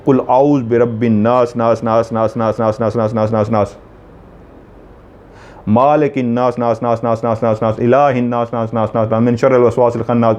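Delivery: steady, level recitation with the repeated word in even beats; demonstrated recitation. Shown as a demonstration. Teacher showing viewers how to repeat नास, in steady recitation. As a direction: recite it evenly, repeating the last word like a count. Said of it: "कैसे?".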